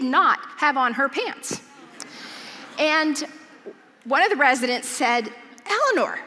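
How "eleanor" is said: high call of her name. Retold or imitated. Residents call out to Eleanor.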